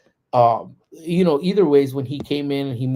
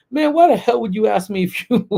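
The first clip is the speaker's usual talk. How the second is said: higher, louder mock-indignant cousin voice; imitating cousin's complaint; 9 semitones higher, 6 dB louder than usual. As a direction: grumble at a friend for offering more sauce. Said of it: "he was like".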